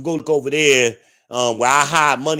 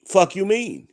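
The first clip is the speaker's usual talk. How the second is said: indignant; 6 semitones higher than usual. Real, not acted. Angry rant repeats line higher.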